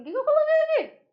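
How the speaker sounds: squeaky high confused voice; sudden high puzzled question; puzzled self-quote. Retold or imitated. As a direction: act baffled at your own slide, high pitched. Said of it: "eu fico assim".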